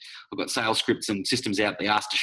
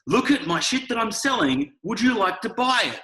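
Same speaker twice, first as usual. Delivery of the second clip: much higher, slow mocking sales voice; mock pushy seller; 9 semitones higher, 3 dB louder than usual. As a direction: whine it like a desperate seller.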